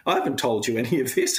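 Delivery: mock-excited therapist praising progress; excited praise. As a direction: gush like a thrilled therapist, lightly acted. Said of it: "Rebecca would be like".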